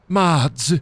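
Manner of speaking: creaky drawn-out tycoon voice; Mister Burns. Acted. Burns calling his assistant Smithers, creaky tycoon voice. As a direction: summon an underling imperiously. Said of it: "I can do Mister Burns".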